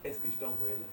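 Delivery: low, hushed voice of God questioning; voice of the Lord. Retold or imitated. The Lord questioning the preacher, hushed and low. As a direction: ask softly and gravely, as God. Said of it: "Le Seigneur qui me dit".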